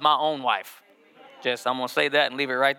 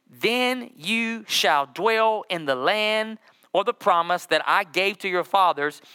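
slow scripture reading; 3 semitones higher, slower than usual. Acted.

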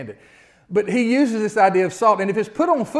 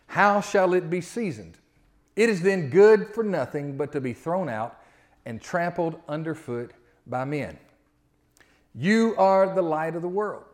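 scripture reading. Acted. Pastor reading Matthew five to the congregation, measured. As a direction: read the verses with weight and care.

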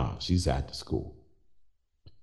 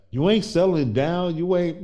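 much higher, louder teasing nag; grandparent side; 12 semitones higher, 6 dB louder than usual. Retold or imitated. Father teasing adult daughter about settling down, mock grandparent nag. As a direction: playfully push her like an eager would-be grandparent. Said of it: "this grandparent side of me is like".

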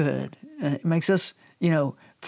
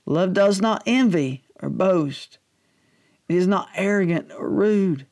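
measured Scripture reading; slow reading. Real, not acted. Preacher reads Paul's list to the congregation, measured. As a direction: read it out deliberately, pausing between clauses. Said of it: "read this sort of slow".

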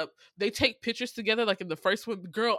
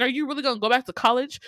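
fast, louder confrontational question; dogging the boyfriend; 3 semitones higher, 6 dB louder, faster than usual. Retold or imitated. Second girl confronts her friend about the boyfriend, scornful. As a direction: fire it off as a challenge. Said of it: "she kept dogging her boyfriend".

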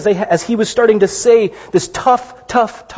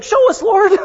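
Thomas pleading; 14 semitones higher than usual. Retold or imitated. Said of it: "he's like".

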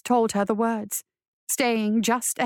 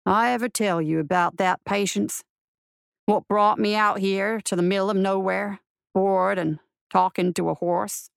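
a hint of a lonesome marshal, lower; lightly voiced weary marshal; 3 semitones lower than usual. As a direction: lightly play a bored marshal chatting to his horse.

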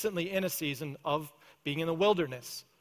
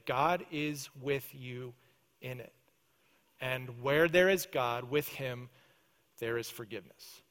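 gentle reassurance; 4 semitones lower, 4 dB quieter than usual. Acted. Preacher reassuring a troubled listener.

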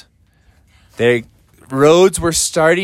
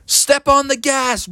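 urging; 9 semitones higher than usual. Acted. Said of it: "they were like".

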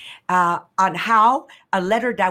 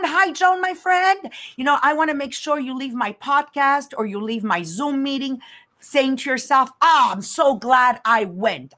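warm greeting; 4 semitones higher than usual. Shown as a demonstration. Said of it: "Leave them feeling good with intent".

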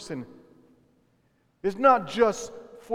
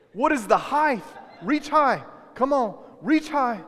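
rousing call-out; 5 semitones higher than usual. Real, not acted. Pastor leads congregation in actions.

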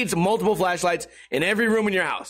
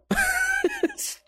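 sudden high squeal of laughter; real squeaky laugh; burst of high laughter. Real, not acted. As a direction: crack up, pitch jumping way up. Laughs at own fumble.

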